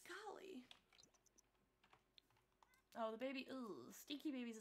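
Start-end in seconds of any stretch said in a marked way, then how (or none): 0.1-0.6 hushed golly; whisper. Real, not acted. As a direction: breathe it softly. Hushed talk near sleeping baby.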